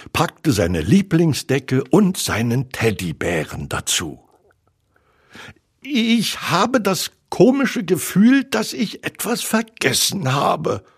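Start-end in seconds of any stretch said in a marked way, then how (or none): 5.8-10.8 high-pitched small creature voice; high storybook piglet; little Piglet. A narrator's reading. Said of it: "sagte Ferkel".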